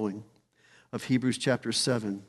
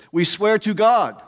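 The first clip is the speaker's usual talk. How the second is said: solemn oath; 6 semitones higher, 5 dB louder than usual. Retold or imitated. People taking oath voiced.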